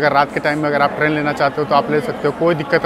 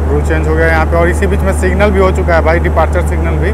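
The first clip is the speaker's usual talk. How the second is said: loud over train noise; 3 semitones higher, 10 dB louder than usual. Real, not acted. Calling over departing train noise.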